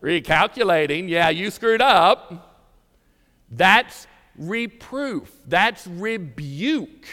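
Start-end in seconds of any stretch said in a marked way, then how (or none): 0.0-2.6 annoying GPS voice. Retold or imitated. Preacher mimics his GPS scolding him to the congregation, mock nagging voice. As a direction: play the nagging sat-nav scolding the driver. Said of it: "in that annoying little voice".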